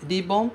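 "Ribbon," with a tapped R; Japanese ribbon. Shown as a demonstration. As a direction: model "Ribbon," as ri-bon with a flap. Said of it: "esse ri do começo". ("Ribbon" com R batido)

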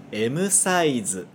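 "M size" as emu saizu; Japanese M size. Shown as a demonstration. Teacher modelling "M size" for students to repeat. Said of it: "Fala depois de mim".

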